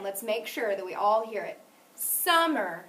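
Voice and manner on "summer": "Summer" with its first syllable lengthened and leaning forward; stress on first syllable. Shown as a demonstration. Teacher makes sure all hear it, stressed start of "Summer". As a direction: lean on the start of "Summer", let the end fall. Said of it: "Did you hear that it was louder".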